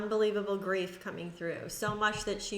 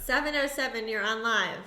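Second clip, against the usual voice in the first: calling out; 2 semitones higher, 5 dB louder than usual. Real, not acted. Host calls on a live caller.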